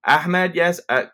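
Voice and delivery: high, projected name call; mock ceremony announcement; imagined name announcer. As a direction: imitate an announcer calling a graduate. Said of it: "all of a sudden they go".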